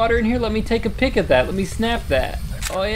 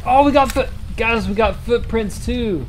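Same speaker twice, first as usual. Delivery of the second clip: excited; 5 semitones higher than usual. Real, not acted. Excited discovery.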